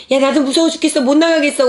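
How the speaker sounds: high, loud, frightened protest; mock-panicked, won't go out; scared refusal. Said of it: "우리 신엄마가 그러는 거야".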